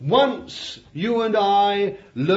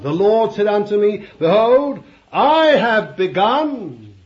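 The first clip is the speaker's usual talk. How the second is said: loud, with the last words slowed right down; forceful sermon reading; proclaiming scripture; 6 dB louder than usual. Acted. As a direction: boom out the Lord's words, then stretch them. Preacher reading God's words.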